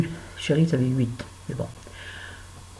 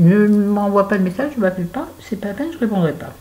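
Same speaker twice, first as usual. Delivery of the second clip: higher, louder, laying down the law; firm raised voice; 5 semitones higher, 4 dB louder than usual. Retold or imitated. Mother to son, raised firm ultimatum. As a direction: set the rule, no arguing.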